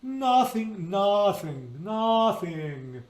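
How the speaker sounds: "nothing" with an open ah; ah for uh vowel. Shown as a demonstration. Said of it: "more of an ah".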